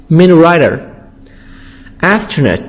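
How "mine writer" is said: "rider" with the T tapped as a quick D; fast soft D. Shown as a demonstration. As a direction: say "rider" with a soft D between the vowels. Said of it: "fast D or soft D".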